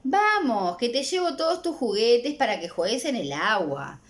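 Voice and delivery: mother tempting her son with bath toys; coaxing mother. Acted. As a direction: coax the child toward the bath. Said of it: "Todo eso lo dice la mamá".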